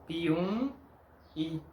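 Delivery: "Piumhi" with nasal u, no m sound, silent h; "Piumhi" as pee-oon-ee; Portuguese pronunciation. Shown as a demonstration. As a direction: Brazilian "Piumhi". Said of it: "El nombre del municipio es Piumhi".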